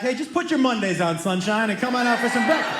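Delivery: mock yell to the next room; retold dad's holler; yelling back. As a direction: call back to a son in another room. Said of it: "And I just yelled back".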